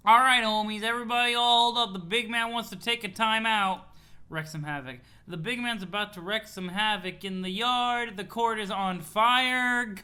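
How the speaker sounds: loud, pumped-up courtside hype man; hyped character voice. Acted. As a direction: shout it to the whole yard. Reads a character's loud dialogue.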